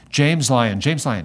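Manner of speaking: retelling a gate agent calling his name, loud and harsh; harsh angry call. Retold or imitated. Gate agent calling out a passenger's name, harsh and angry. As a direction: bark the name out like an irritated official. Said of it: "She had a kind of harsh, angry tone".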